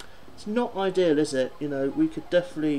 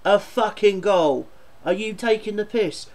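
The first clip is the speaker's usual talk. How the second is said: annoyed; 3 semitones higher than usual. Real, not acted. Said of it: "I'm seriously getting annoyed".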